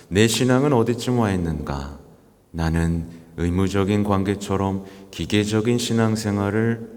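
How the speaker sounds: even, level-pitched recitation; solemn formal reading. Acted. Priest reading the pope's words to the congregation, formal recitation. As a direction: read out a papal reflection in measured phrases.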